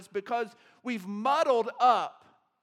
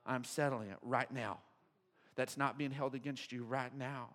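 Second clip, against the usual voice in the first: much lower and softer, tender; gentle voice of Jesus; 11 semitones lower, 10 dB quieter than usual. Pretend. Jesus on the cross speaking tenderly to mockers, hushed. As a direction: speak quietly as if dying on the cross. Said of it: "He's like".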